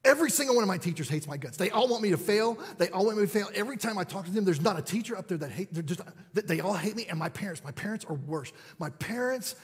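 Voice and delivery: mildly voiced angry teenager venting; lightly imitated sulky complaint; teen rant. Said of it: "I know what's coming".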